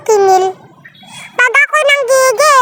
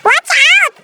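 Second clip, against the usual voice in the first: startled watch out; 6 semitones higher than usual. Real, not acted. Game warning text read.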